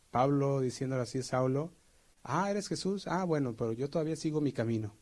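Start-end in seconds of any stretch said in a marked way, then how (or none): 2.2-4.9 casual dismissive. Retold or imitated. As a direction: brush off Jesus lightly. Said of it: "¿Te imaginas así".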